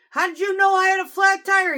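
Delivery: high, loud baffled asking; genuinely puzzled; amazed question. Retold or imitated. Driver asking manager how he knew, high loud baffled.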